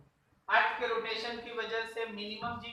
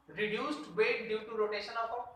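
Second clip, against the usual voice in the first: slow and clear; much slower than usual. Shown as a demonstration. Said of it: "ये बोल सकते हो".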